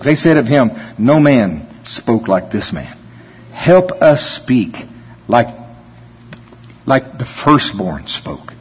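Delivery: heartfelt pleading prayer to the Father; earnest prayer. Acted. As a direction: pray it sincerely for the whole room. Leads a closing prayer.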